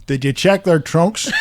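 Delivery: quoting the Kojak line while laughing. Retold or imitated. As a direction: struggle to get it out through laughter. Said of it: "made us all nearly squeal laughing".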